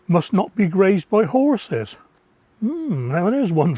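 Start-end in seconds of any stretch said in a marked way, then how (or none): 0.1-2.0 slow, firm must not; stress on must not. Real, not acted. Reading the label rule aloud, slow and firm. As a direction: spell out each word of the ban. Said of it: "I emphasise the word must".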